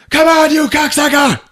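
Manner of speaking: high, hammed-up furious shout; mock-enraged holler; retold yell. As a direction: yell it like you're raging at a shut door. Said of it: "he yells out".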